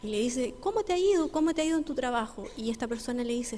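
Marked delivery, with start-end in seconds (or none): 0.6-2.5 pregunta alto y entusiasmado, más aguda; pastor curioso. Retold or imitated. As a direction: como el pastor preocupado que quiere saber. Pastor asks eagerly about business. (el pastor pregunta al empresario cómo le fue, animado)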